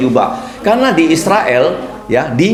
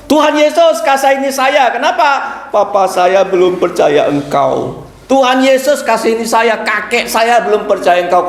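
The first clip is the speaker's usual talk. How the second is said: pleading prayer; 7 semitones higher than usual. Acted. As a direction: cry out to Jesus, pleading. Acted child's pleading prayer. (doa memohon dengan suara tinggi)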